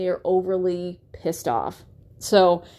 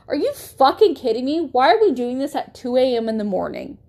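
sharp, raised angry reply; angry retort; 3 semitones higher than usual. Retold or imitated. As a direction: snap at him, fed up at 2 AM. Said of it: "I have anger kind of boiling inside me".

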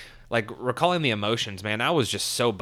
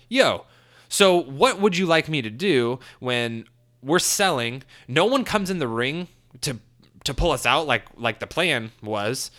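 higher and louder, indignant retort; retold angry pushback; 4 semitones higher, 3 dB louder than usual. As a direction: snap back at the vets, fed up.

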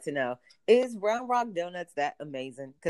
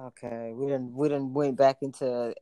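put-on Southern accent; 7 semitones lower than usual. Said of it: "fucking accent".

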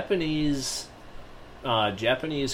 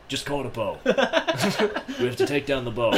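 laughing; 3 semitones higher, faster than usual. Retold or imitated. Quote through laughter.

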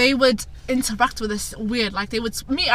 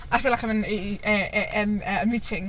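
mock stutter; 2 semitones lower, 4 dB quieter than usual. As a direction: fake stammer on "a". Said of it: "why are you making fun of stutters?".

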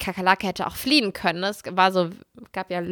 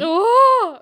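high, loud startled Oh; shocked gasp; 12 semitones higher, 4 dB louder than usual. Real, not acted. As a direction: gasp in horror. Hearing about bedbugs.

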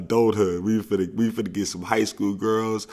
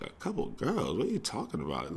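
stunned disbelief; 5 semitones higher, 7 dB quieter than usual. Retold or imitated. Kids stunned by news.

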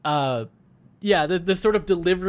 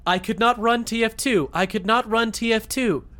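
stiff computer error message; 6 semitones higher than usual. Retold or imitated. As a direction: read it like a system alert. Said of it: "a sound file that's just like".

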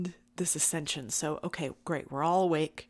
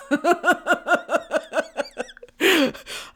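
loud bright burst of laughter; delighted laugh; 10 semitones higher, 7 dB louder than usual. Real, not acted. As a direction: laugh out with joy. Laughs at herself.

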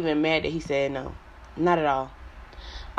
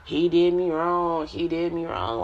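mocking whine. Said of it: "it's so".

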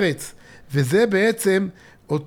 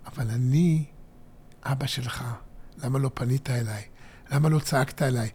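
soft, much lower and quieter, like a loving father; tender fatherly reply; 7 semitones lower, 9 dB quieter than usual. Acted. God answering his child, soft and fatherly. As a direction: speak as a father hurt his son didn't call.

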